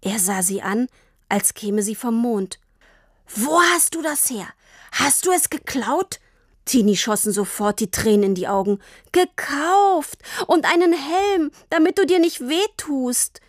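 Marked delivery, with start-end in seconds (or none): 3.3-6.2 shocked father. A narrator's reading. 9.1-13.4 put-on tearful girl. A narrator's reading. Crying girl defends herself.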